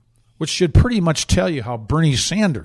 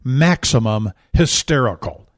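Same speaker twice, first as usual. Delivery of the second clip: mock quote; 4 dB louder, slower than usual.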